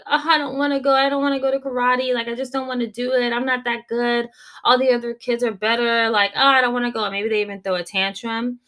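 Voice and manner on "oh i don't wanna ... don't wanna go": mock toddler whine, pitched higher; whiny toddler. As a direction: whine like a kid who won't go to karate. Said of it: "and they're like".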